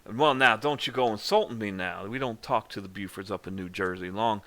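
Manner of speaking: hammed-up offended patriarch; mad Southern gentleman. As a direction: bluster about old family grudges. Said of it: "Buford gets really mad 'cause he's like".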